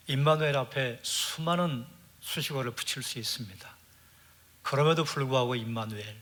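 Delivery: earnest pastoral prayer with lingering pauses; closing prayer. Acted. Pastor leading the congregation in a closing prayer.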